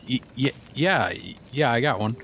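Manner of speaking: halting, caught-off-guard mock reply; wide-eyed, stunned. Retelling his answer to the cowboy stranger, stunned stammer. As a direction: stammer as if mildly dumbfounded. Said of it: "wide-eyed, I'm looking at him".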